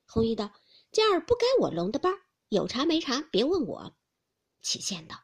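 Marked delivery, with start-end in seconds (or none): 0.9-3.9 fast, louder, higher defiance; snappy retort. Acted. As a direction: cut her off, not my job. Hongyu snapping back.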